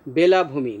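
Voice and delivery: বেলাভূমি with a close e, bela-bhumi; e-vowel pronunciation. Shown as a demonstration. Teacher models the seashore word, close e vowel. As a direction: keep a clear e at the start of বেলাভূমি. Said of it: "বেলা উচ্চারণ একার উচ্চারণ হবে".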